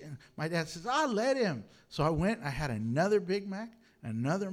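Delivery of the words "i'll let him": dad's indulgent answer. Retold or imitated. Dad allowing another meal.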